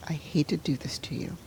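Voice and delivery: soft, near-voiceless apology; hushed whisper. Retold or imitated. Mother breaking the news to her son, whispered. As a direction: whisper it, bracing him gently. Telling son his brother died.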